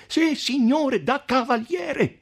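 the count shouting his point of honour at the podestà. A narrator's reading. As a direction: throw it back at the mayor. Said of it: "gridò il conte".

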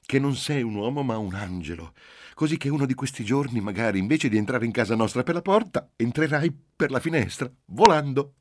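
teasing, stifling a laugh. Acted. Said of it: "Soffocò una risata".

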